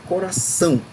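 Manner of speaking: coração split slightly, "ção" made stronger; stress on last syllable. Shown as a demonstration. Teacher asks pupils to listen, "ção" of coração stressed. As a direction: land firmly on the "ção" of coração. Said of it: "o são é mais forte".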